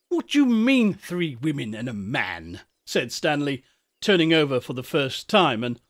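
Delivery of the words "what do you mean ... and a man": challenging. Acted. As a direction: demand an explanation like a rude schoolboy. Rude boy challenges the shepherd.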